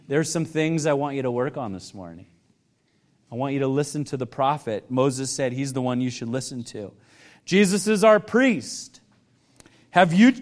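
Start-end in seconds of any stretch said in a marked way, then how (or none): 0.1-4.9 lower, softer gentle urging; Holy Spirit gently. Acted. Holy Spirit nudging a worshipper this morning, gently. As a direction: speak low and tenderly, as a quiet prompting. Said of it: "might be gently saying".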